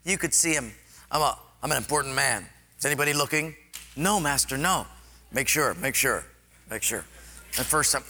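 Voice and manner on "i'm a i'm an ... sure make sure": anxious proud general. Retold or imitated. Proud general fears being seen.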